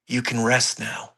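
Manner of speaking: soft, gentle quote; imitated little voice. Recalling a little voice at the dog scene, softly imitated. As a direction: say it softly, like a voice in the head. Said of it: "I heard a little voice".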